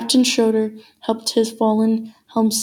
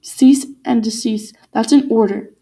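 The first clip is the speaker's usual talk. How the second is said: stern command; 4 dB louder than usual. Acted. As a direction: order the mutineers to stop. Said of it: "Captain Schroeder commanded".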